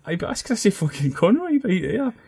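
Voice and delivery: mock insistence, pitched high; retold insistent shout. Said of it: "Fenton's going".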